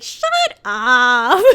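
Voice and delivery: loud laughing "shut up" through giggles; laughing brush-off. Retold or imitated. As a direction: laugh it off while telling him to stop. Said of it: "she'd be like".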